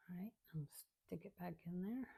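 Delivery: whispered under her breath while working; whispering. Real, not acted. Crafter whispering to herself while placing glue dots. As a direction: whisper it to yourself as you work.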